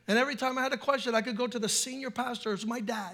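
soft, low earnest preaching; hushed, low pastor's reflection; quiet sermon. Acted.

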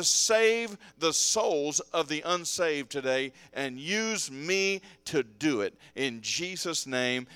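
measured, rhythmic pastor's prayer; public prayer. Real, not acted. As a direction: pray over the congregation, leaning on each petition. Prays aloud over congregation.

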